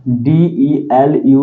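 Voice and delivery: teacher spelling aloud for notes; spelling out letters. Shown as a demonstration. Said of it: "इसका एक और word लिख लेगा".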